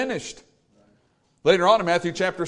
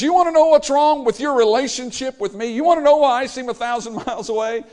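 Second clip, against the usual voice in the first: thundering rebuke; 7 semitones higher, 5 dB louder than usual. Acted. Preacher voicing God's rebuke.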